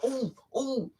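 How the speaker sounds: soft high ooh in pain; high pained moans. Retold or imitated. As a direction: whimper from each thrust. Moaning in pain.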